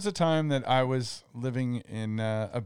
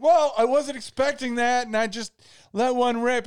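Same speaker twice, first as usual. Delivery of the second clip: sheepish excuse; 10 semitones higher, 5 dB louder than usual. Retold or imitated. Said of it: "I'm like".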